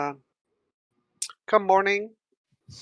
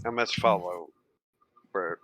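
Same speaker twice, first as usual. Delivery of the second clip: devout; 5 semitones lower than usual. Acted. Devoted follower of the master.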